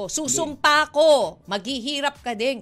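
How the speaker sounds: cursing in jest; mock curse. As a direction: put a pretend curse on someone, drawing out the first words. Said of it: "yung parang sumpa ang dating".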